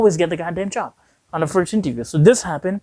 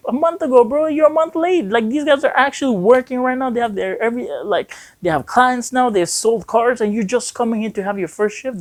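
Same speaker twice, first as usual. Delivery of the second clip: incredulous scolding; 6 semitones higher than usual. Retold or imitated. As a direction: pitch climbing much higher in disbelief, like a boss who can't believe it. GM scolding a late new hire.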